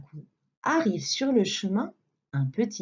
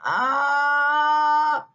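wide open mouth aah; 6 semitones higher, 5 dB louder than usual. Acted. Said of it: "ouvre la gueule pour voir".

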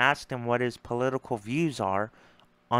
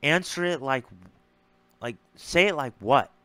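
retold snap. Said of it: "So that's why I snapped".

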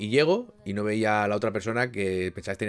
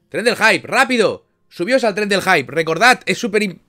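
hype call; 9 semitones higher, 11 dB louder, slower than usual. Acted. Streamer hyping chat.

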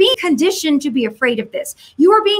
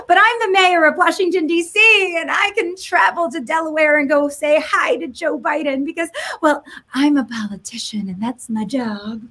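mock smug mayor. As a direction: play the entitled politician bragging about travel. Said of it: "I mock and I do the voices".

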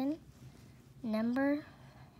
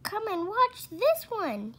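high, loud call across the yard; 10 semitones higher, 6 dB louder than usual. A narrator's reading. Father calling his wife to come watch, loud call. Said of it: "he called out to Missus Cranky".

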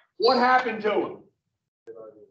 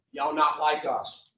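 softer and lower, a coaxing snake; sly hushed snake; 5 semitones lower, 5 dB quieter than usual. Retold or imitated. Snake coaxing Eve, hushed and sly. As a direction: lean in and tempt her quietly.

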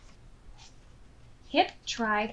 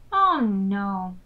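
alarmed; 10 semitones higher, 7 dB louder than usual. Acted. Hop alarmed by thunder.

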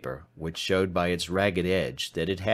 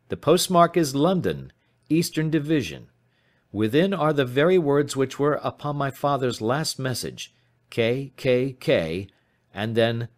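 put-on young client presenting evidence, slightly raised pitch; 5 semitones higher than usual. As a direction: lay out the evidence in a higher voice.

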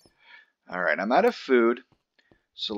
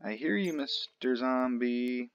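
zombie voice; 3 semitones higher, 3 dB quieter than usual. Pretend. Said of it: "don't you love that?".

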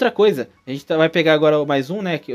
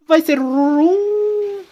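suspense reveal; 12 semitones higher, 5 dB louder, much slower than usual. Acted. Dramatic encounter reveal.

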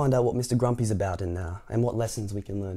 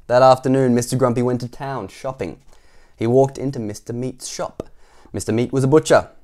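loud, animated scene opening; story narration; 3 semitones higher, 9 dB louder than usual. A narrator's reading. Narrator takes Mister Grumpy shopping, lively storytelling. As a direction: read it out to children. Reads the picture book aloud.

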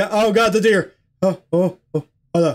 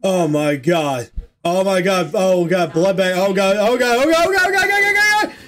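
rising panic. Real, not acted. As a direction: climb from muttering into panic. Panic building while trapped.

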